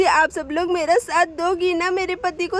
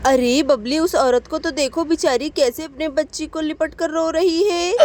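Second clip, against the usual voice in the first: gossiping villager. Acted. Village woman pointing out the crying stranger, pitying. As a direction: cluck with pity at the stranger.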